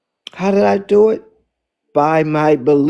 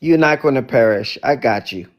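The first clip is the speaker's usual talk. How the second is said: lower, calm reassurance; steady him gently, you've got him; reassuring; 4 semitones lower than usual. Retold or imitated. Jesus to sinking Peter, low and reassuring. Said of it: "And Jesus said".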